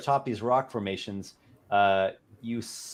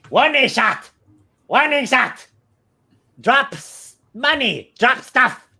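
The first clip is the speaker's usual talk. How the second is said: much higher, louder goblin voice; 10 dB louder than usual. Game master voicing a goblin after its arrow misses, in a goblin voice. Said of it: "the the goblin says".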